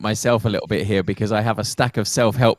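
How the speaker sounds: real self-mocking amusement breaking into laughter; amused at self. Real, not acted. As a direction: confess it while starting to laugh. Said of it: "I'm laughing at myself".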